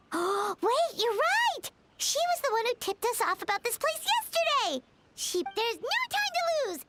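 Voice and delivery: the penny drops, eager to go; excited realization. Acted. Companion suddenly realizes who tipped them off, excited.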